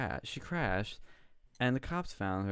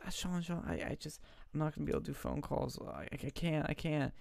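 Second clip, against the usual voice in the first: crying; 6 semitones higher, 5 dB quieter, faster than usual. Retold or imitated. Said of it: "And she's crying".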